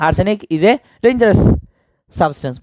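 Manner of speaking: slow, careful trial answer; slow dictation. Shown as a demonstration. Teacher trying out the filled-in answer slowly for students. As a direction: read the answer out slowly, word by word. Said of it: "ডেঞ্জারাস নিয়ে আসতে পারে".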